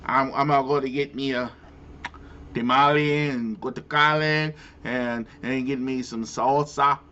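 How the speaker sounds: fast, mock Latino accent on the food words; put-on Latino accent. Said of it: "the Latin spice on the word".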